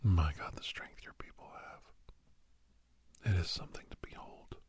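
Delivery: awed whisper. Acted. Awed recollection of mother's strength.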